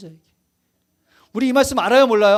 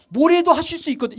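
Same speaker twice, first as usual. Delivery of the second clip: doubtful request; 4 semitones higher than usual. Acted. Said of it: "지금 뭐라 그러냐면".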